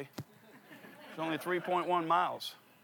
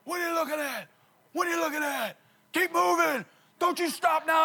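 higher, barking Marine drill shout; 11 semitones higher than usual. Retold or imitated. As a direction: push the runner like a drill instructor. Marine yelling at runner.

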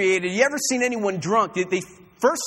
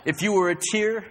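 put-on low, slurry drunk pickup lines; sleazy drunk hitting on a girl; 4 semitones lower, 4 dB quieter than usual.

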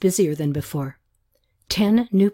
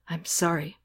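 quieter, gentle apology; soft apology; 7 dB quieter than usual. A narrator's reading. Katie apologizing softly after sobbing. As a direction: let it out softly. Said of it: "she apologized softly".

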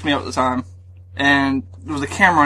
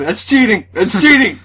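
indignant shouting; 5 semitones higher, 4 dB louder than usual. Retold or imitated. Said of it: "I'm in the back going".

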